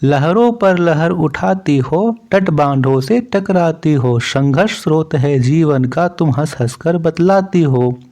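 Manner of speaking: measured, lilting verse reading; steady classroom poem reading; poem recitation. Acted. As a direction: recite the verse line by line, drawing out some phrases.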